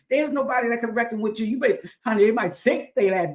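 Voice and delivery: quick, rising preacher's push; fast excited preaching. Real, not acted. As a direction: rush it out with fire. Preaching build-up.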